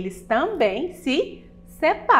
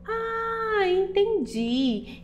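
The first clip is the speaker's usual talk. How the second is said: put-on child voice; 9 semitones higher, 3 dB quieter, much slower than usual. Child voice realizing.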